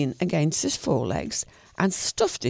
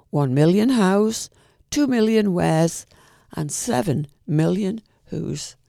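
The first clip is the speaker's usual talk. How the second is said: slow, deliberate build; slow counting; 2 semitones higher, 3 dB louder than usual. Acted. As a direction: spell out each number slowly. Poem climax counting.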